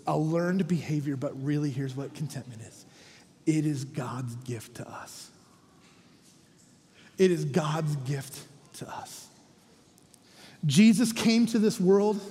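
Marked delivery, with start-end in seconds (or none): 3.4-5.3 hushed, slow whisper of the key point. Acted. Pastor hushes the congregation on the key truth, whispering. 7.2-9.3 slow soft repeat. Acted. Repeat of the line, fading.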